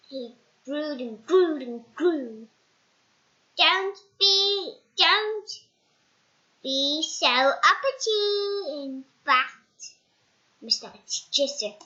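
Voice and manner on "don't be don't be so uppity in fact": high, loud goblin scolding. Acted. Goblin telling off Mister Appleseed, high and loud.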